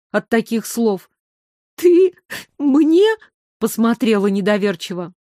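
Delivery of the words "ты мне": high, loud disbelief; can't believe it; Майра stunned that the princess envies her; astonished. A narrator's reading.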